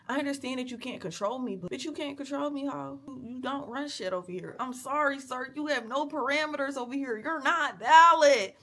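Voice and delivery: defiant rant. Real, not acted. Vlogger lashing out at the man, near tears then yelling. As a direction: tell him off, voice cracking at the end. Venting at man who hates her.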